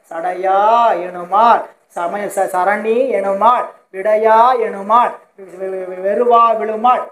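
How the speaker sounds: slow, measured verse quotation; hymn recitation. Retold or imitated. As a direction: recite the hymn line with drawn-out word endings. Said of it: "ஒரு பாட்டுல சொல்லுவார்".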